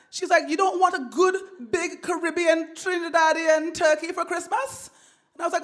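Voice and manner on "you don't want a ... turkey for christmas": much higher mock mom voice; voicing mom. Mom coaxing her son to bring a turkey, high mock mom.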